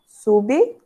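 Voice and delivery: "sublinhar" broken into sub, li, nhar; syllable division. Shown as a demonstration. Teacher shows the separation, syllable by syllable. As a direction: pause after each syllable of "sublinhar": su-bi, li, nhar. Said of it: "vai haver a separação".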